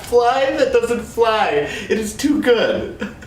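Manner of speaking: high, slow, laughing delight; cracking up at the joke. Real, not acted. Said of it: "trying not to laugh".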